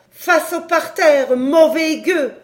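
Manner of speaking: loud, high, slow-starting shout; shouted order. A narrator's reading. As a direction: shout a furious command at a scoundrel. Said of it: "une voix lui cria". (ordre crié avec colère)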